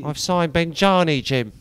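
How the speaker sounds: slow, chummy manager voice; imitating Harry Redknapp. Manager telling the reporter about signings, slow and chummy. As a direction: drawl it like a proud old manager. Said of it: "I love Cockney storytellers".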